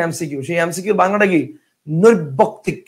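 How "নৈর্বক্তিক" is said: "নৈর্বক্তিক" split as নৈর্ব-বক্তিক, rising at the end; two ব sounds. Shown as a demonstration. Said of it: "উচ্চারণ কিন্তু এখানে দুইটা ব আছে". ("নৈর্বক্তিক"-এ দুইটা ব স্পষ্ট উচ্চারণ)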